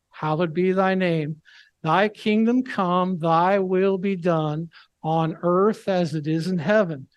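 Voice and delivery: slow, measured recital of the prayer; slow liturgical prayer; prayer recitation. Acted. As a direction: pray it word by word, reverently.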